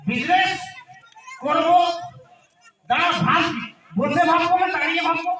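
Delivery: put-on town drunk. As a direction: bluster like a happy drunk. Drunk answering wife loudly.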